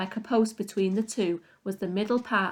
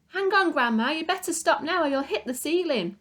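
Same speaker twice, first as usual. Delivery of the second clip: put-on worried boy; 7 semitones higher than usual. A narrator's reading. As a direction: urge her to stop before disaster. George pleading as she grows.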